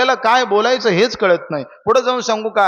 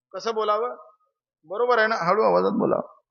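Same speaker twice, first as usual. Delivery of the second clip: softly, as if keeping it down; hushed; 7 dB quieter than usual. Acted. Preacher echoing the audience's timid answer, hushed.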